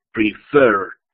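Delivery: "Preferred" con "ferred" marcado; acento final. Shown as a demonstration. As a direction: cargar la segunda sílaba de "Preferred". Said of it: "la segunda sílaba tiene el acento". ("Preferred" pausado, acentuado al final)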